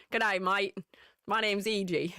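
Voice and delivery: attempted Australian accent, not very sure. Shown as a demonstration. Streamer introduces herself as an Aussie, rusty Australian accent. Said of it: "used to have a pretty good Australian accent".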